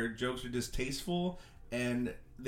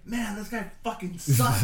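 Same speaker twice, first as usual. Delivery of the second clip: retold heckle, louder and higher, slowed down; comic imitating a drunk woman heckling his friend, mock yelling; 5 semitones higher, 6 dB louder, slower than usual. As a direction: call out like a drunk heckler at an open mic. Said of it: "yelling it".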